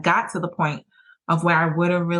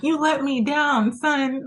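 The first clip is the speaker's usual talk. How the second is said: higher, drawn-out coach's reproach; disappointed football coach; 8 semitones higher, slower than usual. Retold or imitated. A movie football coach scolding his player, with disappointment. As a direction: play the let-down movie coach. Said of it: "those football coaches on the movies".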